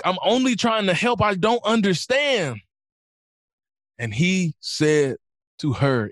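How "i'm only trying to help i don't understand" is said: high, pleading self-defence, slowing at the end; offended protest. Retold or imitated. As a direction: act out an affronted would-be helper. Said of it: "And she got offended".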